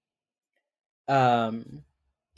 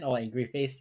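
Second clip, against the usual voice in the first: ordinary talk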